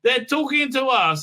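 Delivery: high, very slow hammed-up fright; mock scared. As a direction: whimper it like a cartoon coward. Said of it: "they're like".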